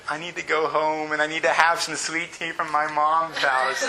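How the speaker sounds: laughing, lightly voiced homesick son; mama's boy whine. Preacher imitating himself begging to go home to mom. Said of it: "how much of a mama's boy I was".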